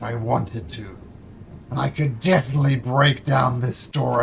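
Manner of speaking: lightly voiced boastful dragon; measured, imposing dragon laying down terms; proud dragon. Dragon testing would-be allies, proud and self-assured.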